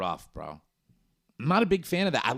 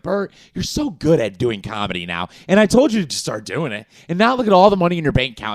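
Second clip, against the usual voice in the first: louder, rushing flattery at the end; mock gushing host; 2 semitones higher, 8 dB louder, faster than usual. The podcast host gushes praise at Bert, speeding up. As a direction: gush praise faster and faster. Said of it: "They're like".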